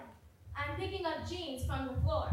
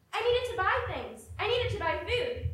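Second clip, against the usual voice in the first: much higher and louder pleading; desperate shout; 7 semitones higher, 5 dB louder than usual. Acted. A girl with no money for food, shouting at a friend. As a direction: push the need out hard. Argument escalating.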